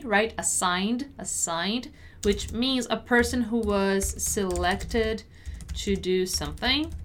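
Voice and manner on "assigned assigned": "Assigned" with no vowel before the final D; "assigned" ending straight in an N-D sound; silent E. Shown as a demonstration. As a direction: say "Assigned" as two syllables, the E unpronounced. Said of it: "Notice how I don't pronounce the E".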